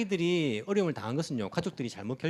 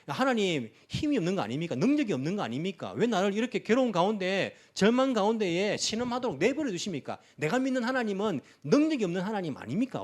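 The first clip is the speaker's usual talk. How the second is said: anguished protest; 4 semitones higher than usual. Retold or imitated. Despairing believer accusing God.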